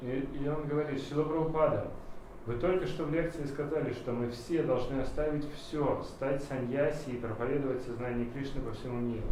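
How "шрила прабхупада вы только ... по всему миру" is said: ordinary delivery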